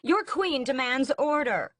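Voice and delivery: queen commanding the riot, loud; regal command. A narrator's reading. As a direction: demand silence from the mob.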